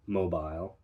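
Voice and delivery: mobile ending in aisle; British mobile. Shown as a demonstration. Teacher repeats the British mobile. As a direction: mobile said as mo-bile. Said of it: "are spoken as aisle".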